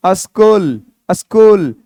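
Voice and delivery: "स्कूल" said as "uh-skool"; careful pronunciation. Shown as a demonstration. Teacher modelling the word for students, "स्कूल" as uh-skool. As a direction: open "स्कूल" with a short uh before the s. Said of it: "किसको स्कूल बोलते हो".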